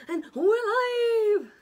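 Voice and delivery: high, slow, loud show opener; announcer voice. Pretend. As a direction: call it out like a TV host. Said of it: "That's what I always say".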